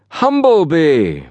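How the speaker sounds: high, drawn-out call; bawled. A narrator's reading. Fenn spots his friend beyond the barrier, bawling. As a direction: call the name out in recognition. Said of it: "at which Fenn bawled".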